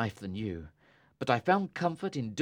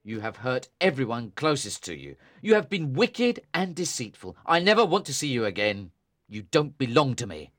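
lower, louder scolding brother; angry; 7 semitones lower, 3 dB louder than usual. A narrator's reading. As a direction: condemn her harshly, voice dropping low. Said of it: "replied Tom angrily".

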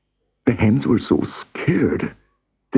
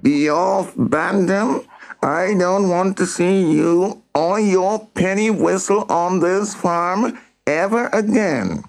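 angry yell; 13 semitones higher than usual. A narrator's reading. Mister Moan throws Bantam off the farm, yelling angrily. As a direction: banish them in a high-pitched rage. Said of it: "he yelled".

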